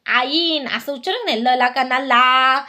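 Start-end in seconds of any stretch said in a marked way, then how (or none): 1.5-1.7 "ला" held long on the aa vowel; long "आ" sound. Shown as a demonstration. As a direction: stretch "ला" slowly. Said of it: "आचा उच्चार आणि तो पुढचा ई". ("ला" मधला आ लांबवून)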